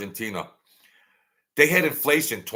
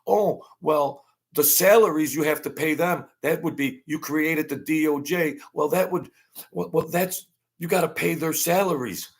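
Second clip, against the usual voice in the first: mocking whine; 5 semitones higher than usual. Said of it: "they can't even make any formidable responses".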